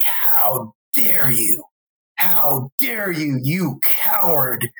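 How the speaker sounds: slow furious whisper at first; seething, slow and trembling; shaking with anger. Retold or imitated. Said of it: "shaking with rage".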